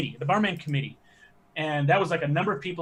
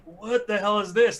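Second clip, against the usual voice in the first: mock disbelief; 6 semitones higher, 4 dB louder than usual. Atari reacting to weird demo.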